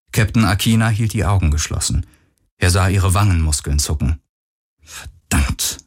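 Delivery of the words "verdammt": whispered, under her breath; muttered curse. A narrator's reading. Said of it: "murmelte sie immer wieder". (geflüstert, vor sich hin gemurmelt)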